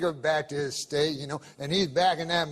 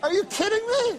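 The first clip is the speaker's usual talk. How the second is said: mock outrage. Guest protesting the host's commercial break, mock outrage. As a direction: squeal it like you've been robbed.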